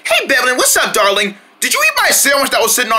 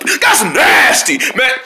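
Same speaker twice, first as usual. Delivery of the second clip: disgusted; 4 semitones higher, much slower than usual. Acted. Disgusted reaction.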